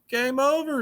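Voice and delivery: high, falling dramatic call; game over exclaim. Pretend. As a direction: punch it like an arcade screen.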